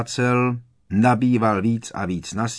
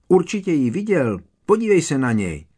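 excited insisting; 6 semitones higher, 3 dB louder than usual. A narrator's reading. Harry keeps shouting excitedly.

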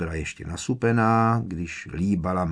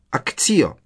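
a higher, louder spell cast with a falling finish; incantation; 6 semitones higher, 4 dB louder than usual. A narrator's reading. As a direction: cast the summoning spell firmly. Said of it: "a pronesla".

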